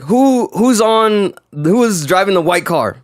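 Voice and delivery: high, slow demanding call that settles; mock yelling question. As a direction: call out for the driver, hurt and upset. Injured rider yells question.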